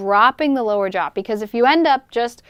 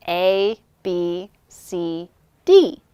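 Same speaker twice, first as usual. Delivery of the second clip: plain; 3 semitones lower, much slower than usual. Shown as a demonstration. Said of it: "the basic thing to start with".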